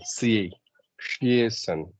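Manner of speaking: "C A, ciation" said apart, leaning on the A; stressed syllable. Shown as a demonstration. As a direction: isolate "C A", then join it into "ciation". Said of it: "So stress would follow".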